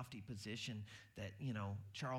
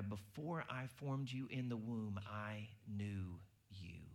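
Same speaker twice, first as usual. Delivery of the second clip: tender, slow; 2 semitones lower, slower than usual. Retold or imitated. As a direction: speak it gently like God to a child. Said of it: "God is saying".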